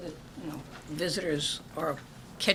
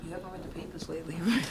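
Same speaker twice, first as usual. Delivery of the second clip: kind gentle laugh; 4 dB quieter, faster than usual. Real, not acted. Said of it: "I'm not laughing at you".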